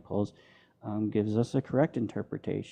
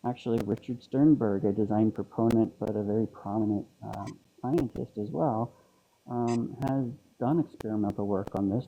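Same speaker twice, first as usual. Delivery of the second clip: ordinary delivery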